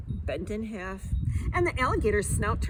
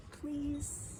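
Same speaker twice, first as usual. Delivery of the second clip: much softer, hushed please; 3 semitones higher, 12 dB quieter than usual. Acted. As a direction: breathe out please gently. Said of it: "laugh softly".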